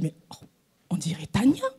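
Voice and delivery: a whispered, amazed aside; hushed surprise. Retold or imitated. Seeing a stranger who looks like Tania, whispered surprise. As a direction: breathe it out in astonishment. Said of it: "je dis".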